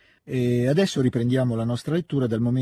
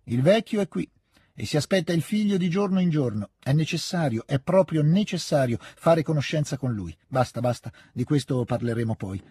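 lightly voiced old hostess, higher and insistent; insistent old lady; 5 semitones higher than usual. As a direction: press the point, then drop it. Urging Natascia, then cutting off. (insistenza della vecchia signora)

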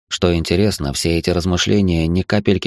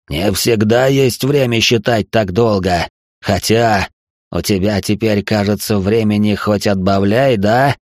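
mocking darkness; 3 semitones higher than usual. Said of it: "Тьма продолжала смеяться клокочущим смехом".

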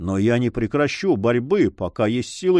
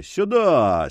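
higher, ringing call of "Сюда!" with a falling end; booming call; 5 semitones higher than usual. A narrator's reading. Forester summoning the dogs through the storm, ringing call. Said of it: "крикнул зычным голосом".

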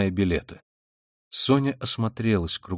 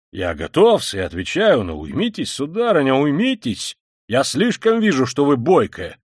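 flustered Luzhin; 4 dB louder than usual. Acted. Luzhin being tugged by Katerina Ivanovna, flustered protest. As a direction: try to fend off an onslaught.

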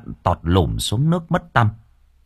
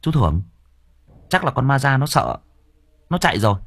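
sly nephew; 4 semitones higher than usual. Acted. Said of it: "nó thốt lên".

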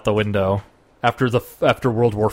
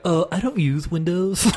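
smug reply; 6 semitones higher than usual. Acted. Acting a smug hipster user reply.

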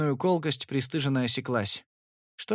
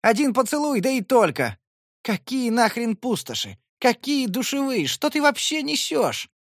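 high exasperated yell, louder throughout; frustrated yelling; 10 semitones higher, 4 dB louder than usual. Acted. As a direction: shout out of sheer frustration.

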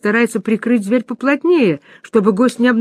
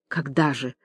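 passionate whisper; 5 semitones lower, 7 dB quieter than usual. A narrator's reading. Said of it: "страстно прошептал".

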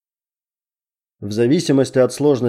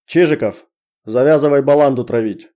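stern shout; 3 semitones higher, 4 dB louder than usual. Acted. Major scolds soldier.

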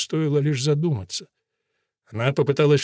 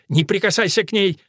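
sharp rebuke; 5 semitones higher, 3 dB louder than usual. A narrator's reading. Wife to her husband reaching for the rival, sharp rebuke. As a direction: cut him off with a louder, higher order. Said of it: "Гвенда его осадила".

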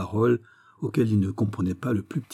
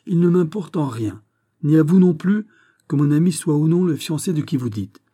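stern rebuke; 7 semitones higher, 7 dB louder than usual. Acted. Porthos scolds the count.

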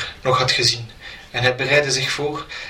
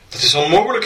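louder and higher in shock; cried out; 5 semitones higher, 5 dB louder, faster than usual. A narrator's reading. Shocked Ringo cries out at the impostor. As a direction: burst out in disbelief. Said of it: "riep hij uit".

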